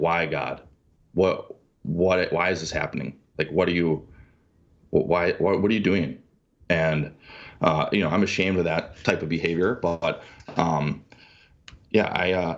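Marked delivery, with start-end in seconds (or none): none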